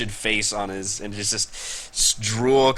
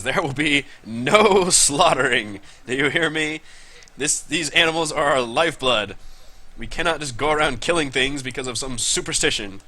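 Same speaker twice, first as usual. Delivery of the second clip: firm refusal; 4 semitones higher than usual. Acted. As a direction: put your foot down on the slaughtering. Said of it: "leans forward and says".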